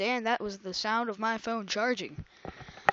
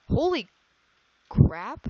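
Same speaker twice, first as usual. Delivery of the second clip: surprised; 2 semitones higher, 7 dB louder, slower than usual. Real, not acted. Sudden shock at game event.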